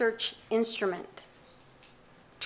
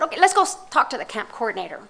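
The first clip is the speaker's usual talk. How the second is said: mildly irritated, let's go sort this out; annoyed; faster than usual. Retold or imitated. Aid worker telling refugees she'll confront the coordinator, mildly annoyed. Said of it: "I got annoyed".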